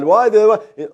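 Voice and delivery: lightly voiced Job questioning God. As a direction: plead for a reason. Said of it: "Job's questioning God".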